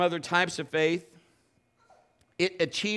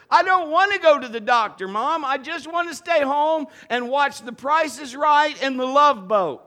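put-on higher, louder kid's begging whine; pleading child; 8 semitones higher, 9 dB louder than usual. A boy begging Mom to stay home, loud whiny plea. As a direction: beg like a boy who won't go.

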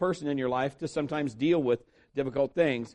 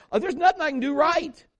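mock despair; 10 semitones higher, 4 dB louder than usual. Retelling his own despair.

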